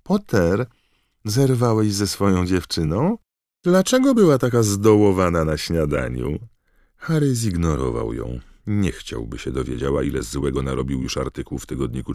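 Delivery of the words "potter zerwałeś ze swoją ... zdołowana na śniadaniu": loud, higher taunting call; raised voice, pitched up, needling. A narrator's reading. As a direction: call across the distance. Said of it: "zawołała".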